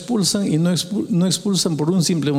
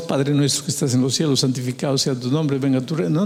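rote prayer recital; faster than usual. Retold or imitated. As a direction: rattle it off like a memorized prayer.

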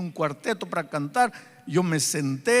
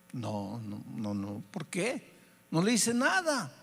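stubborn refusal; 4 dB quieter, slower than usual. Retold or imitated. Father resisting the Spirit, stubbornly protesting.

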